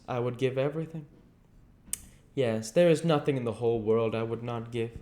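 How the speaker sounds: lightly voiced young man, mournful; a hint of a despairing young beauty; Dorian Gray. A narrator's reading. Dorian laments his youth.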